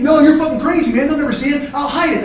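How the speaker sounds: brothers' screaming match, voice pushed up; retold screaming. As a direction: argue back loudly, like a screaming brother. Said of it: "Glenn starts screaming at me".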